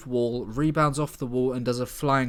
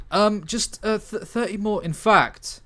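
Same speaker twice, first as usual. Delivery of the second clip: much higher, urgent stalling; frantic hacker; 7 semitones higher, 5 dB louder, slower than usual. Acted. Dingo to teammates, pleading for time. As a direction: beg for a bit more time.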